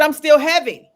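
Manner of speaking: high, loud acted complaint; exasperated retort. Client still weighed down by shirts, exasperated. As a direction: throw the answer back, fed up. Irritated client answers counselor, retold.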